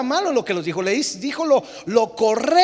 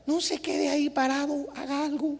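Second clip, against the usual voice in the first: mock urging; 4 semitones higher, 8 dB quieter than usual. Shown as a demonstration. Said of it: "dígale conmigo".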